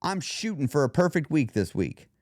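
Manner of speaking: aim stated with wiggle room; leaving wiggle room. Shown as a demonstration. Showing listeners the alternative, leaving wiggle room. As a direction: offer it as a goal, not a promise. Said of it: "You hear the difference?".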